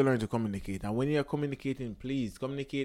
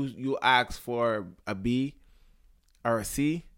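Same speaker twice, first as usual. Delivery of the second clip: ordinary talk, nothing marked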